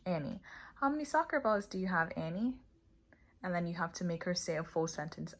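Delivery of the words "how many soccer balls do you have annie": higher, coaxing question, rising on the name; cheerful teacher question. Shown as a demonstration. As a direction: ask sweetly, pulling up on Annie. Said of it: "you say".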